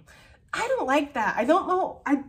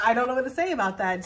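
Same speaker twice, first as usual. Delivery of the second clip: laughing; faster than usual. Real, not acted. Reader laughing at the cards.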